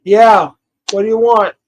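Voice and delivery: loud and impatient; angry streamer snapping at a caller; loud curt answer. Real, not acted. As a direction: bark it at the caller.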